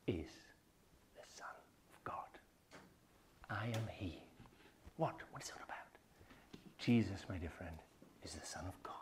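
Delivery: unvoiced, very soft whisper; hushed whisper. Real, not acted. Preacher revealing the answer, whispered. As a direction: drop to a reverent whisper.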